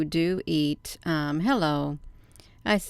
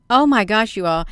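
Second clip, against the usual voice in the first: surprised; 4 dB louder than usual. Real, not acted. Shocked at article.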